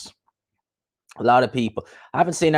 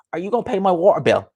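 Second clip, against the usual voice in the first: mock pleading in a raised pitch; Coogan; 8 semitones higher, faster than usual. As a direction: put on a high-pitched imitation. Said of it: "Imagine Coogan had a war".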